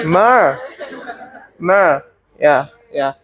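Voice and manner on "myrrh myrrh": myrrh repeated as a drawn-out "mur"; corrected pronunciation. Shown as a demonstration. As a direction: say myrrh slowly as one syllable, "muhh". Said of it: "not myrrh".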